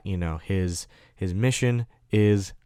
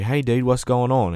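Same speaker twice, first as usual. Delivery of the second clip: higher-pitched mock British soldier; amateur British accent, pitched up; 4 semitones higher than usual. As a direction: do a casual British accent on the greeting. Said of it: "that was my British, British accent".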